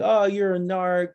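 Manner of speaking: imitating a bully's taunt, drawn out slowly; teasing. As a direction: taunt like a kid picking on a snitch. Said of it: "then they tease you".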